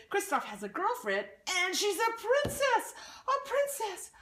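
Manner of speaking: very high, squealing excitement; a troll bursting with gossip; thrilled troll. Acted.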